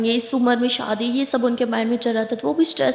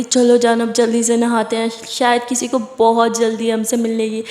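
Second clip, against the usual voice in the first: playful urging; 4 dB louder than usual. Acted. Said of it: "वो कहती".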